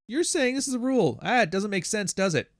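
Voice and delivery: high, faux-confused voice; mock playing dumb. Imitating someone stalling with fake confusion, high and whiny. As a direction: act innocently baffled.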